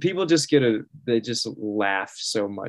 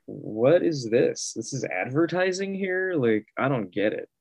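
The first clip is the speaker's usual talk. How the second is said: confused disbelief; 3 semitones higher than usual. Retold or imitated. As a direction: act baffled by a strange ad. Retold confusion at tissue ad.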